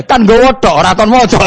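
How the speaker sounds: excited punchline. Acted. Preacher delivering the joke's punchline to the crowd, high and loud. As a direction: throw the punchline out like you can't contain it. Punchline shouted amid laughter.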